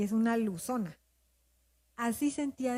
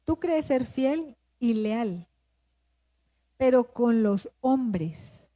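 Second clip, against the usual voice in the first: slow, deliberate retelling of God's challenge; God's confronting words; 3 dB louder, much slower than usual. Retold or imitated. God confronts her about her loyalty, slow and emphatic. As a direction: stretch each phrase with firm pauses, lightly voicing God. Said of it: "Y entonces me dijo".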